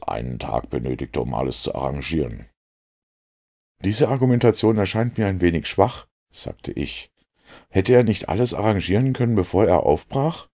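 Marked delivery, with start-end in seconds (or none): 3.8-6.1 higher, louder Watson voice; Watson doubting. A narrator's reading. Watson doubts Holmes's reasoning. 7.7-10.5 higher, louder Watson voice; Watson doubting. A narrator's reading. Watson questions Holmes.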